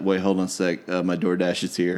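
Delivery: flat, distracted interruption; monotone voice. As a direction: mumble it like you're checking your phone. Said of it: "in that monotone voice".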